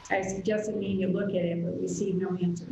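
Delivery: muddled, muffled connection; like talking from underwater; underwater sound. Real, not acted. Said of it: "You sound like you're underwater".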